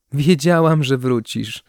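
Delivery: put-on high, loud burst from a little girl; girl exclaiming. A narrator's reading. Girl hugging her returned kitten, exclaiming. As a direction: exclaim it high like an excited child. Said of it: "wykrzyknęła dziewczynka".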